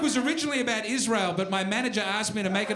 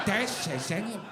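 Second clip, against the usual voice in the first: put-on English accent; 3 semitones lower, 3 dB quieter than usual. Repeats the English sad question.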